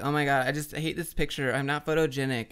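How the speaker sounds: light mock Valley Girl voice; Valley Girl accent. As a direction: lightly imitate a self-conscious Valley Girl. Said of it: "The Valley Girl accent".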